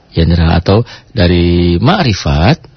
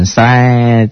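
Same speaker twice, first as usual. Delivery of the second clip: sudden jolt sound. Shown as a demonstration. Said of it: "gejolak yang tidak tertahankan".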